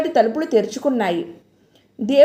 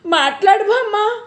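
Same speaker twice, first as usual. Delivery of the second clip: high desperate shout; 7 semitones higher than usual. A narrator's reading. Jayanti shouting at silent grandma, desperate high call. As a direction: yell to make her answer. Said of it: "బిగ్గరగా అరిచింది".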